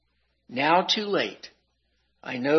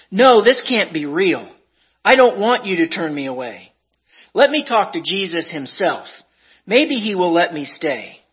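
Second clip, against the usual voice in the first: desperate plea; 7 dB louder than usual. Acted. Begging angel not to turn away.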